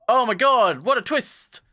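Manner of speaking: high, hammed-up gasping exclamation; mock amazement. Narrator revealing the story's twist, mock amazement. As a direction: overplay the shock, drawn out at the end.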